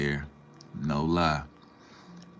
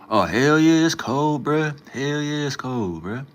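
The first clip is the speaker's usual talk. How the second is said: much higher and louder, emphatic; excited; 10 semitones higher, 5 dB louder, slower than usual. Real, not acted. Streamer answering chat about weather, excited high exclaiming. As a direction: burst out about the freezing cold.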